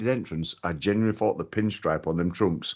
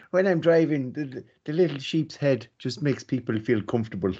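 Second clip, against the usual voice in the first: mock Irish accent; 4 semitones higher than usual. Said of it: "gonna murder the Irish accent".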